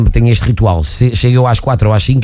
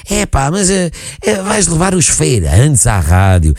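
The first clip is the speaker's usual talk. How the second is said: mock disbelief; 4 semitones higher, slower than usual. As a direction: imitate doubters balking at an idea. Quotes sceptics objecting to his idea.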